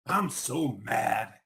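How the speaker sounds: slow, grumbling mild anger; mad. Acted. Isaac sulking to the stump, slow and mildly angry. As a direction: drag it out sulkily. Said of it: "Isaac told the stump".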